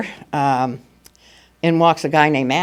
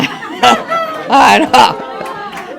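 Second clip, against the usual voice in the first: big laugh; 7 semitones higher than usual. Real, not acted. Laughs at irony.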